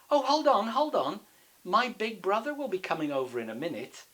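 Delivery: high, urgent goat voice; loud high start, easing into persuasion; stalling goat. Acted. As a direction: burst in to stall the troll.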